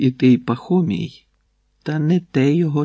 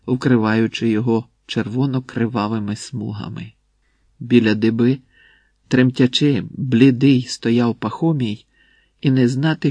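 ordinary delivery

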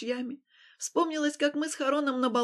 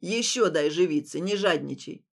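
put-on old man; 6 semitones lower, 4 dB louder than usual. A narrator's reading. Old man urges wife.

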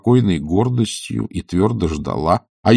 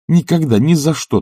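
firm, higher and louder refusal; firmly; 7 semitones higher, 3 dB louder than usual. A narrator's reading. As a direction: shut the idea down firmly. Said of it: "твёрдо сказала она".

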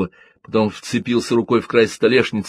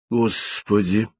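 gasping; much slower than usual. A narrator's reading. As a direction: catch the breath in alarm. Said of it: "ахнул Альберт". (ахнув, испуганно)

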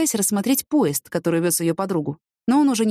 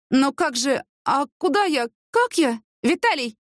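high, bewildered questions building to a call; distressed cry; 8 semitones higher, slower than usual. A narrator's reading. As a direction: plead in rising panic, without shouting. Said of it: "крикнула Яна". (растерянный, отчаянный вскрик)

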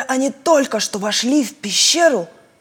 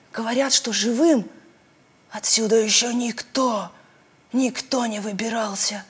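dread fading to a whisper; 4 dB quieter than usual. Acted. Rozaliya warns her friends, dropping to a fearful whisper.

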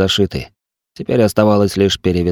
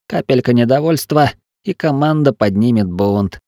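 trying to sound sober; 5 semitones higher than usual. Acted. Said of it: "чётко и старательно выговаривая слова".

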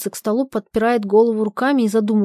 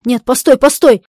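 pleading stop; 3 semitones higher, 8 dB louder than usual. Acted. Zhadov holds her back.

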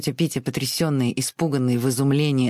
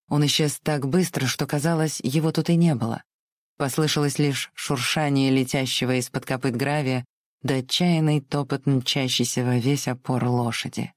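ordinary delivery, nothing marked

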